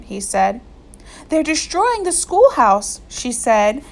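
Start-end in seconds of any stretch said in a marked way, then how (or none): 1.3-3.0 higher, breathless alarm; out of breath from running; panting report to the sheriff; gasping for breath. A narrator's reading. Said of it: "gasping for breath".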